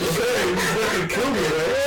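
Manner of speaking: high, loud nervous check. Retold or imitated. Asking the cop if the dog will kill him, nervously high. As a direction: ask it half-panicked, voice up.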